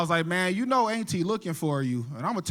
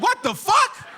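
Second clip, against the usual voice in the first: high-pitched exasperated disbelief; incredulous, voice shooting way up; baffled outburst; 9 semitones higher, slower than usual. Acted. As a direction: blurt it out, totally lost. Baffled reaction to dad's advice.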